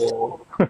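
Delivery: laugh. Real, not acted. Laughing at a listener's skincare compliment, low chuckle. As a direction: let out a short, low chuckle.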